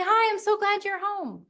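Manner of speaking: bright, high happy welcome; glad greeting. Shown as a demonstration. Wife greeting her husband at the door, high and glad. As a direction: greet him like you missed him. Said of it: "greet him and say".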